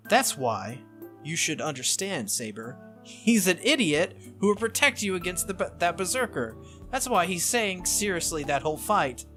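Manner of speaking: insistent scolding on someone's behalf; Tosaka. Acted. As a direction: pitch up and press the point.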